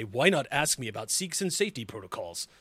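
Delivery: flat automated machine voice; robot monotone voice. Acted. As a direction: read it like a robot. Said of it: "automated voice in monotone".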